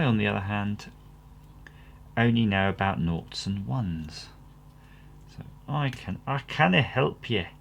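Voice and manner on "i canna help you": half-hearted attempt at a Scottish accent; badly faked Scots; crap Scottish accent. Electronics vlogger owning up to limited know-how, bad Scottish accent. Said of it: "crap accent that was supposed to be".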